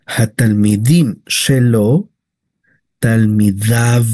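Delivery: talmidav said slowly, ending in av; teacher modelling the Hebrew suffix slowly; slow careful Hebrew. Shown as a demonstration. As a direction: spell out talmidav slowly, av at the end. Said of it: "No es talmidaiv".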